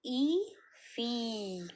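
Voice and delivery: slow, sound by sound; patient blending demo for children. Shown as a demonstration. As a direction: say each sound as you write it. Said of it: "पढ़ेंगे hand to hand".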